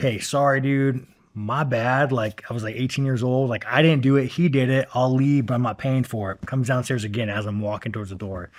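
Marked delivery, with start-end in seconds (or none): 0.0-2.1 very slow, drawn-out, apologetic, backing-down tone. Retelling his younger self answering a girl about a hole in the wall: retelling being apologetic. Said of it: "I'm like apologetic".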